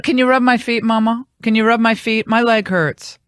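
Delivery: a hint of a whining little boy; whiny kid plea. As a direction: mimic a son begging for a foot rub. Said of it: "this is what Emperor Nico does".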